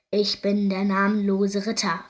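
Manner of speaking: a princess faking a knight, only a little put on; mild mock knight voice; disguised voice. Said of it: "mit verstellter Stimme".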